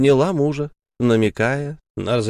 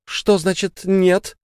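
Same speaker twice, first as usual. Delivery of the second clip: indignant demand; 9 semitones higher, slower than usual. Acted. Sara indignant at refusal.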